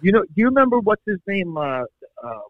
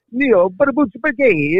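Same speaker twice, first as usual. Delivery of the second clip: mock Italian; 6 semitones higher, slower than usual. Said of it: "he's like".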